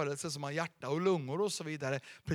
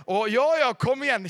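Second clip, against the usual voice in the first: loud, rousing call; fired-up cheer; 4 semitones higher, 8 dB louder than usual. Real, not acted. Pastor rousing the congregation to respond, loud and rousing. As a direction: whip up the crowd. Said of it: "känn vad starkt det blev här nu".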